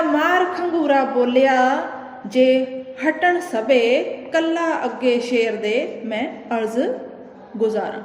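slow, drawn-out verse recital; poem recitation. Acted. Teacher reciting verse to the class, slow and measured. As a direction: chant the lines slowly like a poem.

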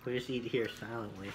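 chewing a bite; biting into sandwich; mouth full of food. Real, not acted. Seen 0: Boy bites sandwich then; background man may be speaker.

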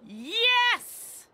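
sharp, loud and high yes; angry. Acted. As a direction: snap it out in anger. Mom snaps back during argument.

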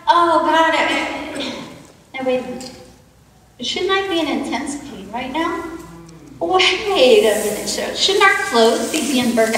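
lightly voiced Meshach, excited, then awed; a hint of Meshach marvelling at the rescue; Meshach in the furnace. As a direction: retell the furnace as Meshach living it, lively and amazed. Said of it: "what it might have been like for Meshach".

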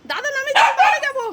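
high, sing-song coaxing to the cat; baby talk to a pet. Acted. Voicing the cat's wishes. (বিড়ালকে উঁচু আদুরে গলায় থামানো)

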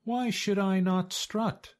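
high, indignant turkey voice; Turkey Lurkey's reply. A narrator's reading. Turkey answers the worried goose, high and indignant.

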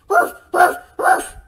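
loud barking woofs; dog barking. Acted. Sherman the dog hates the vacuum, loud barks. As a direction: bark out each woof like a dog. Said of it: "Sherman barks and barks".

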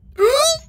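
a high, sudden intake of breath; sharp excited gasp. Real, not acted. Player gasps at a lucky golf shot. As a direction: gasp as the ball drops. Shot hits pole, goes in.

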